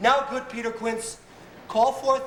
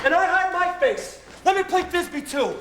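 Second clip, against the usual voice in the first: monstrous little voice; 6 semitones higher than usual. Acted. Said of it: "I will speak in a monstrous little voice".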